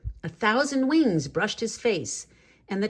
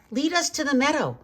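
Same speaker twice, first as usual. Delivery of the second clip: higher, earnest plea; the flock pleading with John to lead them; 7 semitones higher than usual. A narrator's reading. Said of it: "pleaded the flock".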